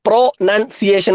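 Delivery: പ്രൊനൗൺസിയേഷൻ broken into pro, nun, ciation; pauses inside പ്രൊനൗൺസിയേഷൻ, part by part; split into parts. Shown as a demonstration. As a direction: say പ്രൊനൗൺസിയേഷൻ in three separate chunks. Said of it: "ഇങ്ങനെയും പിരിച്ചായിട്ടും പഠിക്കാം".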